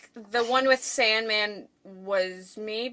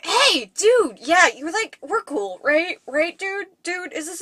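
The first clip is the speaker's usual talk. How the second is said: put-on bro voice, pitched up; dude voice; 6 semitones higher, 3 dB louder, slower than usual. Shown as a demonstration. Testing a dude voice on the co-host, high and hammed-up. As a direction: play a chummy dude, badly faked. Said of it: "is this an okay dude voice?".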